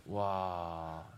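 usual speaking voice

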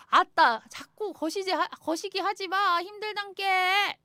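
hammed-up Jeolla dialect line. Shown as a demonstration. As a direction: hit 아따 loud in Jeolla dialect. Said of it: "이거를 사투리로".

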